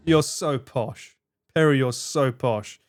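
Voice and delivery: slow, teasing drawl of you're so posh; slow playful mockery. Real, not acted. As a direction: tease a friend for sounding fancy. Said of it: "how posh it sounds".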